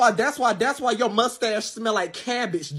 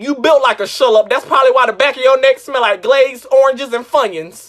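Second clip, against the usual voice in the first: loud roast; 2 semitones higher, 6 dB louder than usual. Acted.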